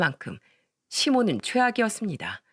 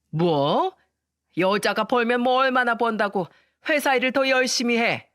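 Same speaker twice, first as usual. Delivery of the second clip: lightly voiced scornful mother-in-law, a touch higher; a hint of a sneering mother-in-law; 4 semitones higher than usual. Mother-in-law sneering at the working daughter-in-law, mildly mocking. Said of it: "mother-in-law retorts".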